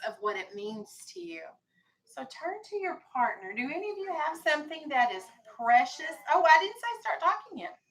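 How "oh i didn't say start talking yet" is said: louder, higher, stopping the class; raised scolding voice. Real, not acted. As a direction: call out over the chatter to stop it. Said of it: "teacher scolding chatter".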